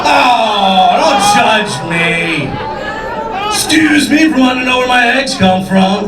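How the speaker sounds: drawn-out indignant protest to the crowd; mock defensive. Comic defends himself to the audience, mock indignant.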